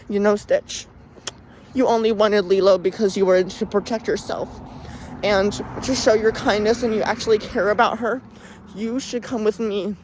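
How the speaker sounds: mildly acted coaxing speech; retold villain persuasion. Jabba talks Stitch into coming with him, lightly acted persuasion.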